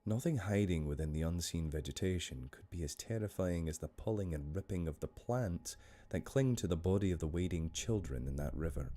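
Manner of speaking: measured Scottish story narration; Scottish storyteller, unhurried; Scottish accent. Shown as a demonstration. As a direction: read the tale in a Scottish accent. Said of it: "I'm gonna do this one in a Scottish accent".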